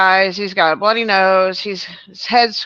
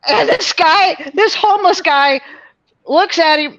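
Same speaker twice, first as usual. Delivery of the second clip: crying with laughter, high pitched; can barely get the words out for laughing; laughing so hard it comes out in high squeaks; 6 semitones higher than usual. Real, not acted. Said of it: "laughing hard while telling".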